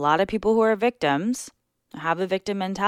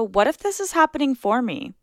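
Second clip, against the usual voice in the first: hopeful what if; 4 semitones higher than usual. Shown as a demonstration. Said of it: "But if you start to go".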